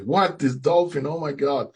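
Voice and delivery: high-pitched retold disbelief; astonished. Swimmer seeing the dolphin followed him ashore, astonished. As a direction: exclaim it high, stunned by what turned up.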